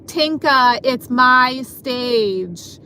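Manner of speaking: imitating a coworker's rude, drawn-out demand; mock rude and slow on the last words; kinda rude. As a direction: mimic her rudely staking a claim, stretching the words. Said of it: "starts to say kinda rudely".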